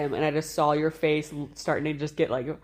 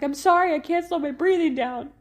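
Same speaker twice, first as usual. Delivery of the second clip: much higher, louder desperate apology; panicked apology; 11 semitones higher, 5 dB louder than usual. Retold or imitated. Mother apologizing to the midwife, high panicked plea. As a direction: plead breathlessly with the midwife. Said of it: "I kept saying to the midwife".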